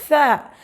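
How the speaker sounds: tha said like the start of thank; tongue between teeth for tha; teacher modelling tha. Shown as a demonstration. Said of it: "As we pronounce thank you".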